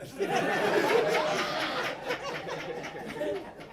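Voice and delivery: high airless wheeze; wheezing laugh. Real, not acted. Unvoiced laugh.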